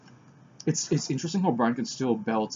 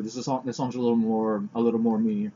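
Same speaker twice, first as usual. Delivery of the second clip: talking through a mouthful; words round a bite of food; mouth full. Real, not acted. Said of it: "Sorry for talking with my mouth full".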